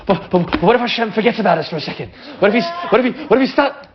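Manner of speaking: rushed, anxious stammering; panicky worry. Retold or imitated. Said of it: "this is where people can kind of freak out".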